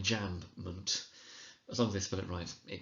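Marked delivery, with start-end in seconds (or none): 0.0-1.1 enjambment spelt out as en-jamb-ment; students' pronunciation. Retold or imitated. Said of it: "you often find students calling it".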